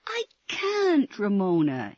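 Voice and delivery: high crying plea; pleading. Acted. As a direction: beg her to understand. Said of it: "he pleaded".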